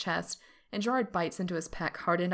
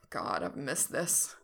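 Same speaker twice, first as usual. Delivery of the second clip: longing; 7 semitones lower, slower than usual. Acted. Lover's longing line.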